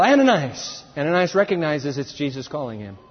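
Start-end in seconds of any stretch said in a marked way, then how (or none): 0.0-0.8 higher, single summons; raised attention-getting call. Acted. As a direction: call the name once. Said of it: "just one call".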